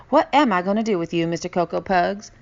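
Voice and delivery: fast, loud mock scold; mother scolding her kitten son lovingly; fond scolding. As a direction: scold him fondly. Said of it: "she scolded".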